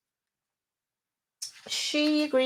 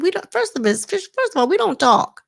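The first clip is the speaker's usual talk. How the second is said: heated retort; 8 semitones higher, 3 dB louder than usual. Retold or imitated. Mel's heated retort retold.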